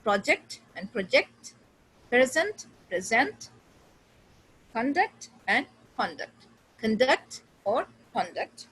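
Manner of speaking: first syllable stressed, then second; "conduct" stressed CON-duct then con-DUCT; noun then verb stress. Shown as a demonstration. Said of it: "difference between noun and verb".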